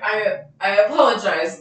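embarrassed apology through a laugh; sheepish giggling apology. Retold or imitated. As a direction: laugh it off while saying sorry. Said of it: "And I was like".

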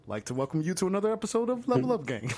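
polished customer service voice; white person voice. Pretend. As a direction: sell it like a corporate greeter. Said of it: "with your white person voice".

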